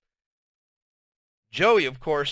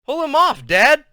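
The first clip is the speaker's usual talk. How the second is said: mischievous; 11 semitones higher, 8 dB louder than usual. A narrator's reading. Kid suggests jokingly.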